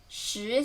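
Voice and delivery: 石 rising in second tone; rising Mandarin tone on 石. Shown as a demonstration. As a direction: lift the pitch through 石.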